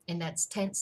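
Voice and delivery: "tense" said clearly, then spelled; tense explained. Shown as a demonstration. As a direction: stress the word "tense". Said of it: "T E N S E".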